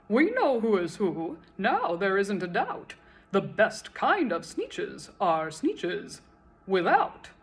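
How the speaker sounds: triumphant crowd shout. Acted. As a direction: shout it with snoots in the air. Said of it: "let out a shout".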